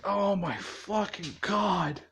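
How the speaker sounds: slow, drawn-out exasperated groan of words. Retold or imitated. Izuku fed up with an unwanted visitor, exasperated. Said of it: "Izuku's just like".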